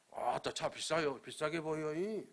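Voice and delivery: light Jeolla dialect, teasing the elder; a hint of Jeolla drawl in a mock compliment. Pastor teasing the elder about his car in Jeolla dialect. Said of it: "내가 전라도 사투리로 딱 그랬어".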